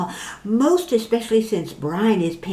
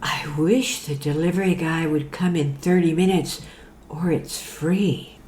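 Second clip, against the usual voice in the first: sultry voice; 3 semitones lower, 3 dB quieter than usual. Acted. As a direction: tease the camera, sultry. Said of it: "said in a sultry voice".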